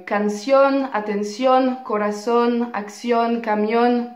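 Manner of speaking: "canción, atención, corazón, acción, camión", each stressed on the last syllable; final-syllable stress. Shown as a demonstration. Teacher lists words in -ón for students, final syllable stressed in "canción" to "camión". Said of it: "l'accent tonique placé sur la dernière syllabe".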